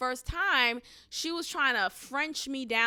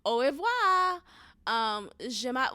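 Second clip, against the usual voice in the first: mock snooty French speaker; slower than usual. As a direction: imitate her showy novice French. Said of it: "she was literally saying it like that".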